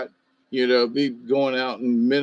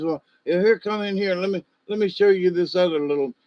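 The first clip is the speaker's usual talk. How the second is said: lightly voiced old neighbor, higher and quick; coaxing neighbor; 4 semitones higher, faster than usual. Neighbor presses visitor to see goats, higher eager coaxing. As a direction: push the invitation eagerly. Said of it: "And he's".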